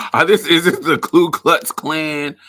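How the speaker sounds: loud, laughing through the question. Real, not acted. Asking in mock alarm about the accent, laughing loudly. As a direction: crack up loudly while asking. Breaking up over own question.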